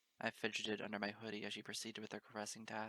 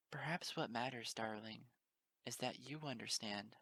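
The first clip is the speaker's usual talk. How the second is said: tender murmur. Acted. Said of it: "a voice hummed against my drooping ears".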